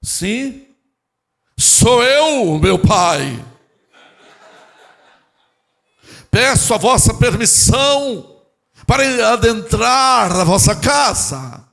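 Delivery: loud, high, slow ceremonial proclamation; hammed-up pompous petitioner; mock religious formality. Child at father's door begging entry, absurdly pompous religious voice. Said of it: "Imagina você chegar na casa do seu pai".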